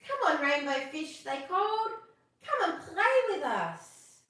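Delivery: group of fish inviting him over; friends calling. Acted. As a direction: call out to a friend to come play.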